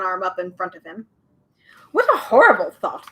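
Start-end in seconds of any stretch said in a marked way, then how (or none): 1.9-3.1 louder, laughing shudder. Acted. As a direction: recoil in mock horror. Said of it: "the bird shuddered".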